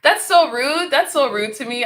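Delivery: shocked. Retold or imitated. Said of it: "I'm like".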